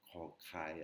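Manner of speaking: "Kro, krai" with a rasped, aspirated K; throat-scraped K. Shown as a demonstration. Teacher demonstrating the consonant before playing Google, throat-scraped K. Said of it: "faire racler la gorge".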